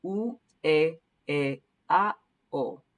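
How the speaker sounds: u, e, e, a, o of "supermercado" said pure and separate; walk through the vowels one by one; vowel drill for "supermercado"; Spanish vowels. Shown as a demonstration. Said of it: "try one more time with the vowels".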